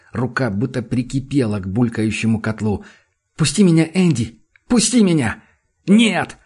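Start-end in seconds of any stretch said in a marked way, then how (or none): 3.4-5.4 shout. A narrator's reading. Джуд рвётся уйти. 5.9-6.4 higher, louder flat refusal; shout. A narrator's reading. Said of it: "Теперь Энди тоже кричит".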